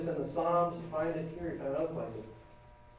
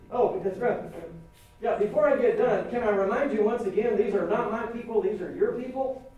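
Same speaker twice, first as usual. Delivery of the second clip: louder, exasperated reminder; exasperated Moses; 5 semitones higher, 5 dB louder than usual. Acted. Moses reminding God these are his people, exasperated. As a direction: needle God like a fed-up servant.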